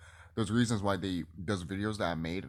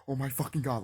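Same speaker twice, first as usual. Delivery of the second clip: higher-pitched mock alarm; imitated panic; 5 semitones higher than usual. Vlogger imitating panicked video makers, mock panic. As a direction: mimic someone starting to panic. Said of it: "like, they're panicking".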